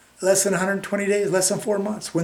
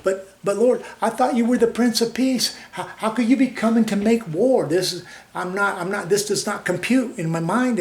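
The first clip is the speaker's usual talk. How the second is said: mildly raised, half-pleading disbelief; bewildered protest to the Lord; 4 semitones higher than usual. Retold or imitated. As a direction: play it like a confused believer questioning the Lord. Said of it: "I go".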